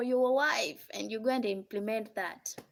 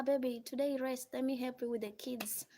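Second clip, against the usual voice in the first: tender to wife; 7 dB quieter than usual. Retold or imitated. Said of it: "Tell her".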